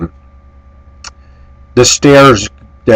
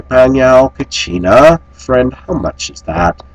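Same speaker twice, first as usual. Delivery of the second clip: slow phrase demo; 5 semitones higher, slower than usual. Shown as a demonstration. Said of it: "you say".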